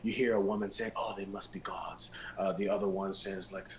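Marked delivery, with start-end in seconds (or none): 0.9-2.1 hushed, lightly whispered townswoman; murmured gossip. Acted. Woman gossiping about the passing group, murmured. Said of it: "people just kind of murmuring".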